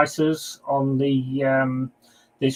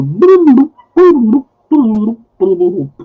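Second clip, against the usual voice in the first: loud mic test; 9 semitones higher, 10 dB louder, slower than usual. Real, not acted. Testing mic by calling out.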